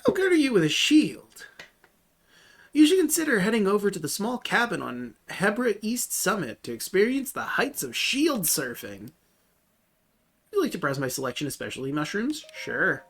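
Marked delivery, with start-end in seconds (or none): 0.1-11.5 NPC shopkeeper voice. Acted. Voicing the game's NPC lines.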